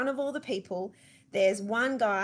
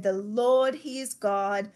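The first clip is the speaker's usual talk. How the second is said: louder, proclaiming "The Lord"; "Lord" stretched and louder, a worshipful cry; proclaiming crowd; 4 dB louder than usual. Retold or imitated. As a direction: call out "The Lord" as a crowd on their faces. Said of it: "fell on their faces and said".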